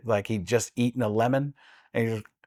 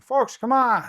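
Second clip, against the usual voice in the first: higher, louder, rushing rambling Biden; Joe Biden impression; 9 semitones higher, 3 dB louder than usual. Shown as a demonstration. Doing Joe Biden for the hosts, higher and rushed. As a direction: pitch up and bluster fast. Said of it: "Or, or Joe Biden".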